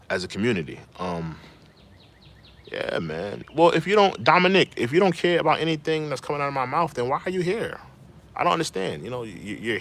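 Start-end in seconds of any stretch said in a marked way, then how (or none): 3.5-9.0 higher, sharper, telling a viewer off; irritated scolding. Real, not acted. Streamer scolding a rude chatter, irritated and raised. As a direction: call out the troll in frustration.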